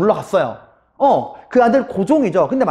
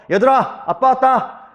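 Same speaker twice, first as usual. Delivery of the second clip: confident higher-pitched announcement; proud father; 5 semitones higher, slower than usual. Retold or imitated. Father arriving home with pay, proud. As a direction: announce yourself as the proud breadwinner. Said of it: "당당한 가장으로 딱 들어가는 거야".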